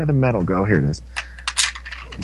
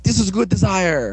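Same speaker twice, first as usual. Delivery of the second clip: higher, put-on creepy delight; mock-creepy admirer; creepy boss; 5 semitones higher than usual. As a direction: gloat over it, pitched up. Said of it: "like, really creepy".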